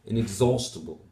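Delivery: "Inexhaustible" with stress on "haust", falling. Shown as a demonstration. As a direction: hit the "zau" sound in Inexhaustible. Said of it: "primary stress is on the second".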